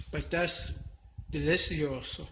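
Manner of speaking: chewing while talking; words round a bite of omelet; mouth full. Real, not acted. Cook tasting omelet for viewers, mouth full. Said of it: "to talk with my mouth full".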